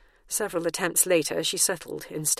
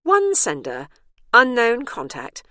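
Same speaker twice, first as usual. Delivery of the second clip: device voice; 5 semitones higher, 7 dB louder than usual. Acted. Tablet answering.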